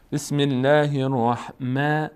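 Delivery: "الرحمن" with thin, fronted "mae" in slow "بسم الله الرحمن"; light meem. Shown as a demonstration. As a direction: recite slowly, keeping "ما" in "الرحمن" thin. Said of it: "پر خوانده نمیشه". («بسم الله الرحمن» شمرده، با میم باریک)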